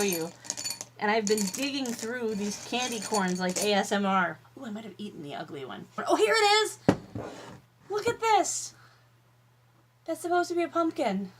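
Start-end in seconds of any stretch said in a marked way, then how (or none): 4.6-5.9 muttered aside. Real, not acted. Aside while digging candy. 6.1-11.3 high delighted squeal; excited squeal. Real, not acted. Finds deformed pumpkin.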